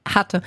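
hatte set apart and pointed, as past; stress on hatte. Shown as a demonstration. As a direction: lean on hatte to show she is gone. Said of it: "Ich betone auf hatte".

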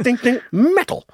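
high, slow parrot voice; Apollo. Retold or imitated. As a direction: chime it like a parrot. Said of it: "he goes".

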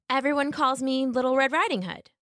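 put-on high, polite little girl voice; a small girl minding her manners. Little Red thanking the wolf, high and polite.

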